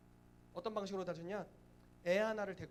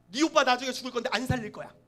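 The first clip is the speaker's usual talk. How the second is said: loud, raised-voice mock curse; hammed-up vengeful pronouncement; spiteful threat; 4 semitones higher, 12 dB louder than usual.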